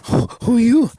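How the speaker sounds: loud, high challenge; indignant demand. Acted. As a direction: demand who he is. Rich man confronts Eliyahu.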